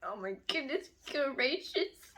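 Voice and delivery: soft, slow swoon; swooning disbelief. Real, not acted. Reader swooning over his speech, hushed and slow. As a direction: let it out slowly and softly, swooning.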